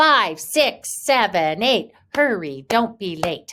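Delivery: very loud, slow, deliberate yelling. Demonstrating a children's counting rhyme in two voices, shouting. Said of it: "Let's try a whisper and a shouting".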